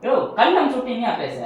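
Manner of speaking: angry. Acted. Yelling at the shop on phone.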